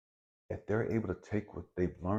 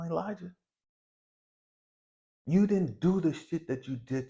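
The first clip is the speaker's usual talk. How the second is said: God mocking. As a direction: needle a whiny child who's done crying. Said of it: "I can see God doing like this".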